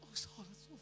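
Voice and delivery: high, soft mock apology; imitated wife. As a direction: mimic her in a thin falsetto. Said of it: "Istri saya lagi gitu".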